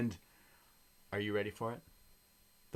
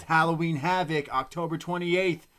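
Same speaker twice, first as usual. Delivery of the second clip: announcing a promo. Retold or imitated. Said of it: "she looks at the camera and she says".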